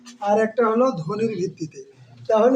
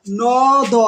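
"ন, দ" as two separate sounds with a gap; split apart; 3 dB louder than usual. Shown as a demonstration. Teacher showing students the wrong way, "ন, দ" split apart. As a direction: break "নদ" into "ন" … "দ". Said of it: "এভাবে উচ্চারণ করবো".

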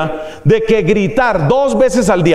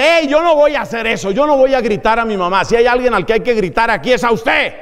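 a lightly voiced mock-indignant mom, starting higher; indignant mother; 4 semitones higher than usual. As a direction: imitate a mother refusing him, half-playful. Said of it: "y una mamá dice". (imitación ligera de una mamá indignada)

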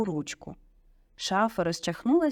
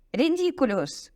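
high, drawn-out spell; exclaimed; 7 semitones higher, 3 dB louder, slower than usual. A narrator's reading. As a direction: cry out the incantation slowly and decisively. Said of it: "вигукнув він".

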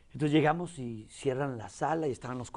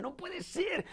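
mild disbelief; 13 semitones higher, 7 dB quieter, much slower than usual. Retold or imitated. Grieving disbelief retold.

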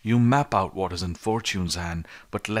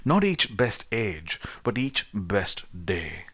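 slow quoted line; slower than usual. Retold or imitated. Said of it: "the poet very aptly says".

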